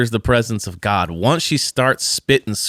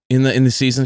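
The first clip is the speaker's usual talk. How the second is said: ordinary talk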